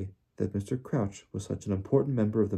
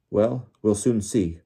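slow, louder growl; 6 dB louder, slower than usual. Acted. Diggory to the accused elf, a slow louder growl. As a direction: drag it out, unimpressed and gruff. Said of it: "growled Mister Diggory".

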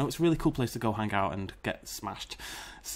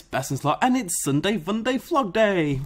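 vlog intro; 8 semitones higher, 6 dB louder than usual. Acted.

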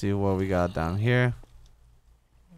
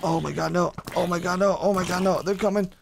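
real dread; 8 semitones higher than usual. Real, not acted. Mobs approaching, panicking.

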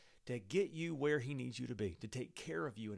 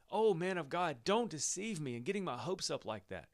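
higher, louder pleading cry; 4 semitones higher, 3 dB louder than usual. Acted. Mother begging the man of God, raised pleading cry. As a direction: beg him not to raise her hopes. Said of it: "she cried".

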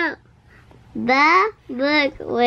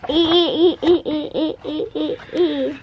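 giggling; much faster than usual. Real, not acted. Child giggling nonsense syllables.

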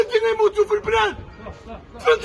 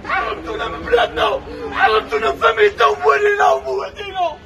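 sobbing furious shouts; angry crying. Real, not acted. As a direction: yell your grief and rage. Man burying parents, ranting abroad.

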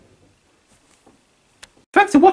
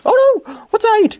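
mock fright; 4 semitones higher than usual.

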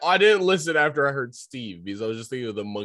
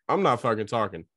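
raised, heated retelling of snapping back; higher and louder angry retort; retold angry outburst; 5 semitones higher, 3 dB louder than usual. Telling friend how she snapped at Eric, heated and raised. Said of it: "I was just like".

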